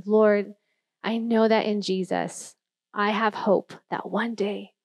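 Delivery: hushed, measured prayer, retold; earnest, subdued talking to the Lord. Voices a prayer from memory.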